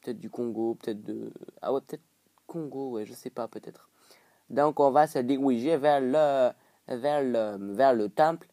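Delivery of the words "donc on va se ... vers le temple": African French put on, firm and halting; amateur African accent; imitated African accent. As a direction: say "diriger" as "diwiger" in mock African French. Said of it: "Donc là, c'est l'accent africain".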